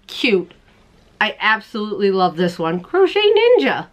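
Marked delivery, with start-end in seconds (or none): 2.8-3.9 playful high name. Acted. Repeating the button name playfully.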